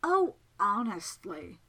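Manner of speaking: slow, drawn-out reproach; exasperated. Acted. Miss Absalom despairs of befuddled Segundus, exasperated. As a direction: stretch it out, out of all patience.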